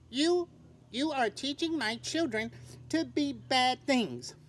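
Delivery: a touch of stern mother; stern mother bird. Acted. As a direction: lay down the house rules. Mother bird scolds Stellaluna.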